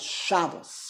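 "Shabbos" with weight on SHA, SHA-bos; Yiddish first-syllable stress. Shown as a demonstration. Teacher proves the Yiddish rule, "Shabbos" stressed on SHA. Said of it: "on the beginning of the root".

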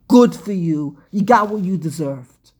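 mock gloating. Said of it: "how they talk in kindergarten".

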